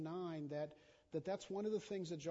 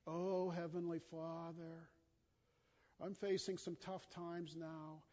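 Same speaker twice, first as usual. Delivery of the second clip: sugar-coated prayer. Retold or imitated. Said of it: "we kind of flower coat it".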